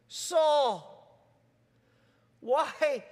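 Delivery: the Lord calling Saul gently; gentle call. Acted. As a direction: call his name tenderly. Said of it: "the absolute gentleness of the Lord".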